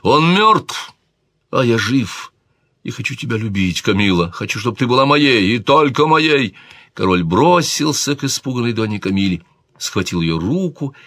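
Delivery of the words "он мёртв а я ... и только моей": higher, insistent declaration of desire; a hint of a possessive king; king's passionate outburst. A narrator's reading. King declares desire to the lady, insistent outburst.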